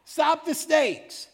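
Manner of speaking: high, loud pleading wail; desperate whining. Retold or imitated. Preacher voicing bitten Israelites begging Moses, loud high whine. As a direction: beg Moses in a hammed-up panicked whine. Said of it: "Then they really start whining".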